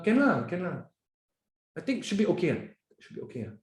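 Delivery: hesitant, hedging can lah avoiding eye contact; unsure can lah. Retold or imitated. A colleague breaking eye contact, hedging. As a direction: trail off unsure on should be okay. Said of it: "They're not coming".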